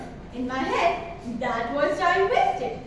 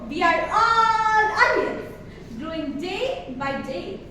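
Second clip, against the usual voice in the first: emphatic declaration; 4 dB louder, slower than usual. Acted. Speech climax declaration.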